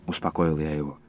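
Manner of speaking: ordinary delivery, nothing marked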